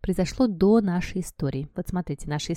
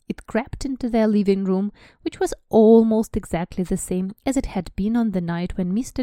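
lively English read-aloud; story narration; 2 semitones higher, 3 dB louder than usual. Acted. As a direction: read it like an audiobook. Reads book passage aloud.

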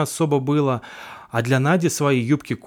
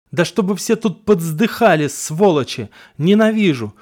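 hateful curse; 4 semitones higher, 5 dB louder than usual. Acted. Одержимый проклинает всех.

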